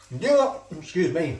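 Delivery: talking with mouth full; messy loud eating. Real, not acted. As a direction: chew and talk at once. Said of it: "You're talking with my mouth full".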